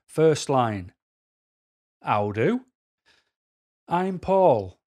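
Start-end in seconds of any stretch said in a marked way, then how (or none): 2.0-4.8 comical hello. Shown as a demonstration. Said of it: "saying hello in a comical way".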